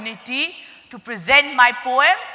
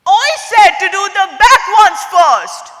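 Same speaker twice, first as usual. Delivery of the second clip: called out; 6 semitones higher, faster than usual. Acted. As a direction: call it out, repeating the order impatiently. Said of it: "the crocodile called out".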